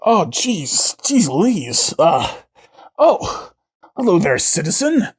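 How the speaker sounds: a hint of a flustered alien lady; green woman. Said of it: "the green woman says".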